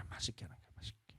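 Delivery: soft whisper for the key point. Real, not acted. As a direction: drop to a hush to press it home.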